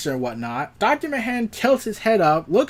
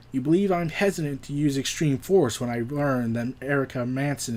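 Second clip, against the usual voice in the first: lower, softer, emotionless tone; a distant being speaking calmly down to humans; detached godlike figure; 4 semitones lower, 3 dB quieter than usual. Acted. Doctor Manhattan lines read.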